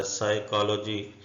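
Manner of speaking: साइकोलॉजी said slowly, starting with sai, p silent; slow clear pronunciation. Shown as a demonstration. Teacher to students, slow साइकोलॉजी with silent p. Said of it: "साई उसका पढ़ा जाता है".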